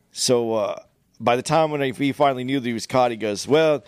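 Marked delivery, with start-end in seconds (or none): 3.5-3.8 retold Indian scammer accent, drawn out; slow, higher mock Indian accent. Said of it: "in that fucking horrendous accent".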